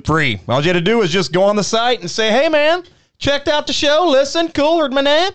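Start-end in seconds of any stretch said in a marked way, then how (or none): 2.3-5.3 higher mock caller voice.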